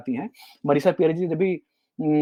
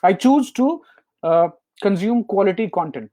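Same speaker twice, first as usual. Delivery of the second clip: slow affirmation; much slower than usual. Shown as a demonstration. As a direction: spell out a personal promise. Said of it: "मैं ख्याल रखूंगा".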